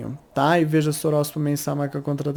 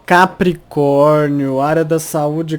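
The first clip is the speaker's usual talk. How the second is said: loud announcement; 6 dB louder, much slower than usual. Shown as a demonstration. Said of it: "announces the sign".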